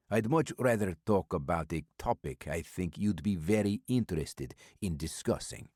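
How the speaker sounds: put-on mysterious old stranger with an Eastern European accent, amused; calm and sly, a heavy foreign accent; stranger's accented voice. Old stranger brushing off Maddox's offer of a meal, in an Eastern European accent.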